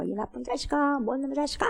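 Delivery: imitated angry cursing, held back in volume; mock straining yell. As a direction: mimic a boy straining to curse. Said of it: "아글아글 쓰면서". (악쓰는 아이 흉내)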